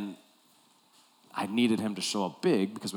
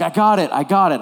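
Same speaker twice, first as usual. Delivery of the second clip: higher, louder brush-off; cocky kid insisting he's fine; eager player; 7 semitones higher, 11 dB louder than usual. Retold or imitated. Player waving off his coach, high and eager.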